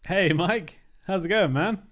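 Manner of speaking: high, loud hello to a viewer; excited hey to Mike; loud greeting. Real, not acted. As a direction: call out a bright hello.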